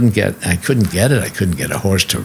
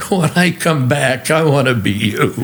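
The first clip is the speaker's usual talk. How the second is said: put-on old gentleman's voice; 5 semitones higher than usual. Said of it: "and he says".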